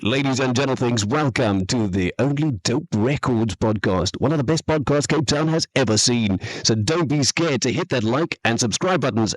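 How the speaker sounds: podcast intro announcer read; announcer voice demo. Shown as a demonstration. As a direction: sell it like a host. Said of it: "do you want a U K accent?".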